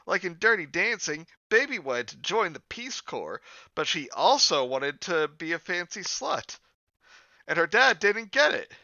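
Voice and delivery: high, swooping cartoon-girl voice; earnest high girlish character read; Bubbles.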